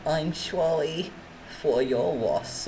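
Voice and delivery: mock condolence. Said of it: "May it rest in peace".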